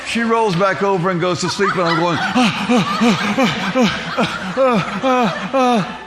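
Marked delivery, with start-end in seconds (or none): 2.2-6.0 gasping for breath. Retold or imitated. Landing in bed, can't catch breath.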